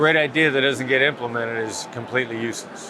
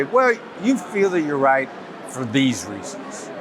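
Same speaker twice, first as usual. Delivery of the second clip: slow, careful tone, just trying to understand; unhurried, neutral and open-minded; understanding, non-judgmental; slower than usual. Shown as a demonstration. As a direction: take no side, slowly feel out their view. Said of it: "I'm just trying to understand".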